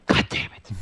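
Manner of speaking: voiceless, exasperated swearing under the breath; muttered curse. Retold or imitated. Tired parent woken by the other child, muttered curse.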